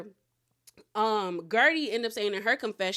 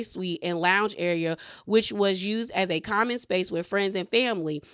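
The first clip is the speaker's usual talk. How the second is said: reading a formal statement, lightly formal; statement read aloud; 3 semitones lower than usual. Acted. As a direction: recite the press statement clearly.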